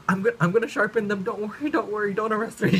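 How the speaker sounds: high, loud, tumbling imitation of frantic begging; mock panicked pleading. Classmate begging not to be arrested, high mock panic. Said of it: "She's bawling her eyes out".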